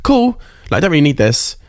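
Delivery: airy, high, dismissive brush-off; mock-casual shrug of a line; dismissive inner voice. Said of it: "I'm like".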